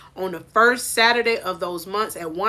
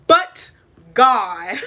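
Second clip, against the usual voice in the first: But God said louder through laughter; joyful laughing But God; 11 semitones higher, 4 dB louder than usual. Shown as a demonstration. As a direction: laugh it out, half crying. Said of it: "That's the end".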